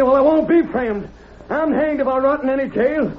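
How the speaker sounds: high-pitched cornered defiance; defiant angry shout. Acted. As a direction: hurl the challenge at them. Cornered man defies the posse.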